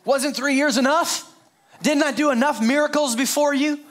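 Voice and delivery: mock annoyed. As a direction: scold as if fed up. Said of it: "He did not say".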